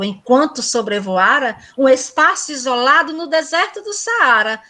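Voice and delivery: rhythmic, sing-song verse reading; cordel recital. Acted. Teacher reciting Little Prince cordel verses to students. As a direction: lilt each line like a folk poet.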